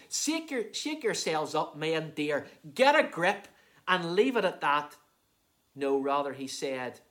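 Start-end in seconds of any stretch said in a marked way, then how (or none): 0.1-5.0 mock brusque telling-off. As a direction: imitate someone ordering others to pull themselves together. Mock scolding Jesus did not give.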